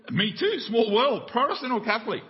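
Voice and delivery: thrilled to find a kindred soul; excited stranger. Retold or imitated.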